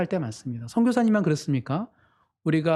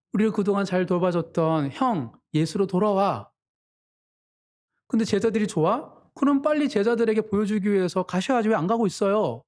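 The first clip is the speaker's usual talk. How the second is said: slightly higher, lightly needling complaint; mildly sulky sarcasm; 4 semitones higher than usual. Acted. Younger brothers grumbling at Jesus for leaving the family, mildly sarcastic. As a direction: voice hurt brothers with a touch of grumbling. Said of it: "섭섭한 마음을 담아서 예수님을 약간 투정하듯 비꼬듯".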